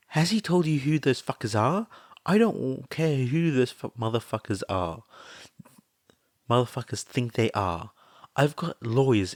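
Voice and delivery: high, loud cursing threats; ready to go for blood; loud angry exclaim. A narrator's reading. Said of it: "Mitsuki exclaimed loudly".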